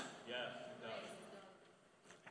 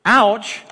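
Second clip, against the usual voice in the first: mock pain; 3 semitones higher, 5 dB louder than usual. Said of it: "drop the hammer on me verbally".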